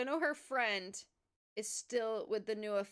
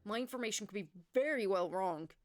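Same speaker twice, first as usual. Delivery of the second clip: put-on nervous old man. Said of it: "the old man starts to lose his nerve".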